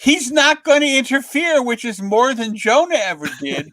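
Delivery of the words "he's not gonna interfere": higher, lightly voiced shrug; a hint of relieved staff; reassured reporters. Reporters shrug off the Kingpin, lightly mimicked. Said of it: "the other half of the reporters are going".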